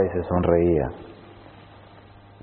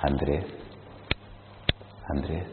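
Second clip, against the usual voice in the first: tender calling voice; 7 semitones lower, 12 dB quieter than usual. Retold or imitated. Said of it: "esa voz tan rica que me dice".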